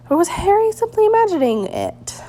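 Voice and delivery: hushed whisper to himself; whispered doubt. A narrator's reading. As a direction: breathe the thought, barely voiced. Harry's inner doubting thought.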